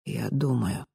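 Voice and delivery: тихо; quiet reply. A narrator's reading. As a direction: answer quietly. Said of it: "тихо ответила Ранит".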